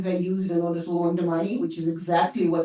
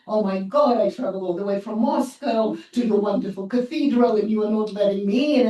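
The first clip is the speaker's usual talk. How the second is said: a hint of wounded devout indignation, slightly raised; mock pious plea; 3 semitones higher, 3 dB louder than usual. To the church guard, pleading to be let in, mock pious indignation. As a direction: play the wronged pilgrim turned away at the door. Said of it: "I just became incredibly religious".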